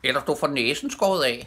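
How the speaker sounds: loud, high parrot threat; high, forceful bird screech. A narrator's reading. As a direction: squawk it out like a parrot. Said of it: "skreg papegøjen".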